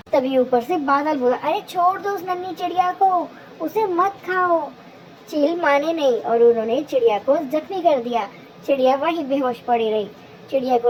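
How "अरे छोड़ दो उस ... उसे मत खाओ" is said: pleading cloud. Acted. Cloud begs kites to spare bird.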